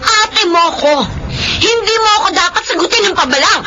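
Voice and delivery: scolding. Acted. Sister scolds brother after slap.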